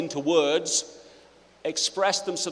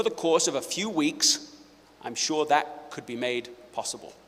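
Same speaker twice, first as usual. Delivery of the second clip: put-on formal teen note; 5 dB louder than usual. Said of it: "She said".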